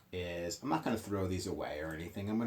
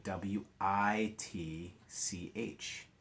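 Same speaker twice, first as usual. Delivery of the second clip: spelling aloud slowly; much slower than usual. Shown as a demonstration. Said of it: "it is spelled differently".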